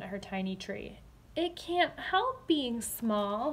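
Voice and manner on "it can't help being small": tender. Acted. Emmy defends her tree.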